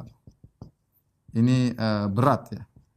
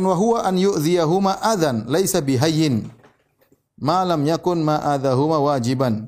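Arabic text recitation; 3 dB louder than usual. Acted. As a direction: recite the classical text with care. Reads Arabic text of scholar.

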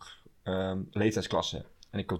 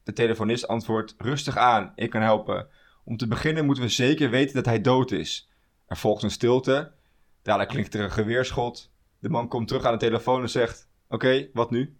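joke reading. Acted. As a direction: read it like a setup. Reads the joke aloud.

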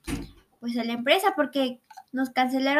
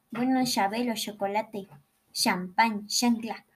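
put-on northern Mexican accent; 4 semitones lower, 4 dB quieter than usual. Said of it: "en vez de decir che, dicen sh".

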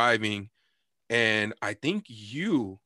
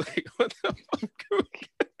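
much higher, words dissolving into laughter; laughing. Real, not acted. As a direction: lose it while asking. Cracking up at the memory.

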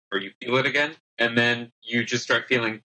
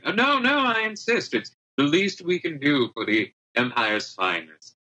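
insistent host; 4 semitones higher than usual. Acted. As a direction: gush it out, overly generous. Alistair insisting, GM voices.

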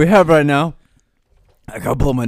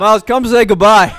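louder call across the room; loud summons for the guest; 3 semitones higher, 6 dB louder than usual. Real, not acted. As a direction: call him back over. Calling guest who ran away.

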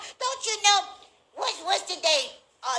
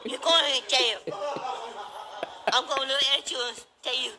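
mock him while giggling; laughing taunt; 5 semitones lower, 5 dB quieter than usual. Real, not acted. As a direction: lower and softer, laughing through the taunt.

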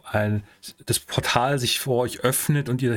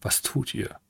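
whispered question; 7 dB quieter than usual. Acted. GM asks, whispered.

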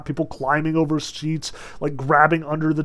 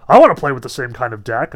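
quick, louder eager call; merry request; 8 dB louder, faster than usual. A narrator's reading. Fat man in the stalls to the magician, merry request. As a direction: pipe up merrily and quickly. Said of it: "requested merrily".

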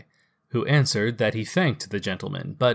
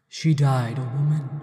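ghost voice; 2 semitones higher than usual. Acted. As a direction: speak as a gentle ghost. Ghost character voice.

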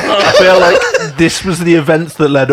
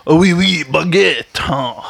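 put-on French accent; 3 dB quieter, much slower than usual. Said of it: "offensive French accent".

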